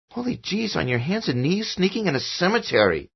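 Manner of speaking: put-on a kid teasing his dad; child's voice. A narrator's reading. Son teasing father in cemetery, high child voice.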